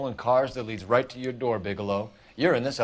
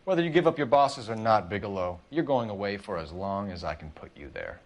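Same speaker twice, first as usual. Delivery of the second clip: tough noir cop threat; 1930s beat cop. Acted. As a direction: lean on him like a hardboiled cop. Detective threatens suspect.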